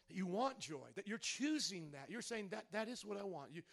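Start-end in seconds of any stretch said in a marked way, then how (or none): 2.5-3.6 prayer. Acted. Pastor modeling a prayer for the congregation, hushed and earnest.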